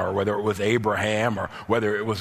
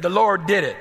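louder proclaiming; 6 semitones higher, 5 dB louder than usual. Shown as a demonstration. Preacher to congregation, proclaiming it louder. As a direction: raise it and proclaim it higher. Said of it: "Everybody say".

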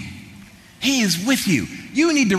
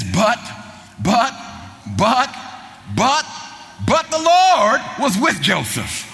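repeated buts climbing higher, ending in a slow shout; building emphasis; 4 semitones higher, slower than usual. Acted. Preacher to congregation, building to a slow shout. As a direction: build each but up to a shouted Lord.

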